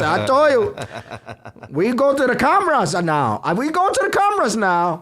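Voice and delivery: loud, high imitation of a fed-up owner; mock angry owner. Owner who could smack the customer, loud mock scolding. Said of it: "she looked like she was gonna smack".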